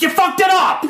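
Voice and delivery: high, laughing exclaim; wife's mock outburst. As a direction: squeal it out through laughter. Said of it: "she'll be like".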